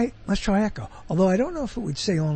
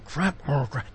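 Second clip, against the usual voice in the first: mild variation; 4 semitones lower, 7 dB quieter than usual. Retold or imitated. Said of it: "I know".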